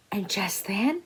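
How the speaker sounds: whispered "and just then"; suspense whisper. A narrator's reading. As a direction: hush them for the surprise. Suspense before the worm.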